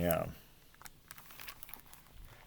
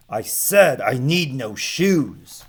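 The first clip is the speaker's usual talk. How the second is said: mild mock shout; 4 dB louder, slower than usual. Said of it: "shouted Barefootus".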